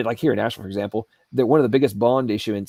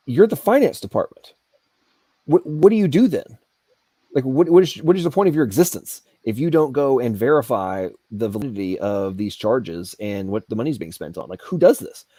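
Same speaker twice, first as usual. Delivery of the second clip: retold exasperation. Retold angry questioning of official.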